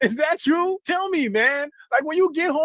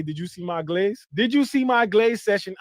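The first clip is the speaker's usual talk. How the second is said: mock fan; 5 semitones lower than usual. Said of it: "do you text Aubrey and say".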